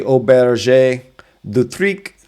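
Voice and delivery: Auberge du Tric in French, Tric lifted; correct French pronunciation. Shown as a demonstration. Guide correcting the English attempt. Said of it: "but it's actually".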